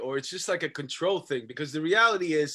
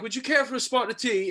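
higher-pitched put-on English accent; mock English accent; 6 semitones higher than usual. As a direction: imitate English actors slipping back into their accent. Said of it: "goes back to their normal accents".

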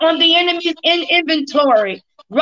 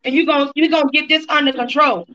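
rebuking. Real, not acted. Rebuking the enemy.

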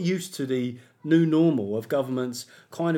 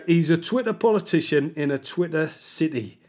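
put-on Geordie accent. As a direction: read it like a Sunderland fan, in a Geordie accent. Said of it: "do this in a Geordie accent".

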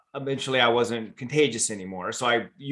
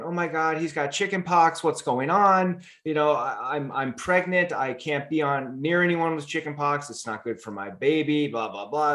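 a hint of a panicky stewardess, slowed on the question; lightly mock her fuss; imitating stewardess; 2 semitones higher than usual. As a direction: stewardess fretting about chicken pox near her baby, mild mock alarm. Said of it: "she's going".

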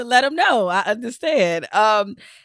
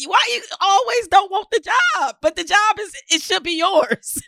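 mock exasperated shout; 11 semitones higher than usual. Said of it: "I'm like".

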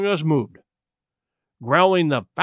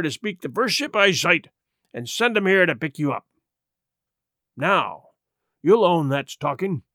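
lightly voiced bargaining pirate; a hint of a salty sea rogue making terms; pirate setting out his offer, lightly played; wheedling pirate Silver.

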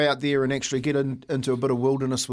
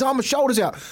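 mimicking injured man; 9 semitones higher than usual. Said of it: "He goes".

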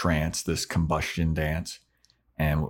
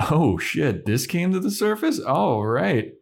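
mock demon voice; 10 semitones higher than usual. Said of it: "he's kinda like".

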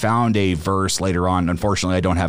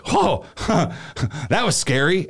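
high, laughing mock fright; 8 semitones higher than usual. To the customers, a high laughing fake fright. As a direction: laugh through a nervous little scare. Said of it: "I kinda laughed".

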